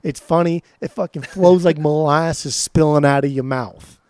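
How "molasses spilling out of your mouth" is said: slow, drawn-out Savannah accent; Savannah Georgia accent. Real, not acted. Praising a favorite song to a co-host, in a Savannah accent. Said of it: "have an Italian, like, New Jersey accent".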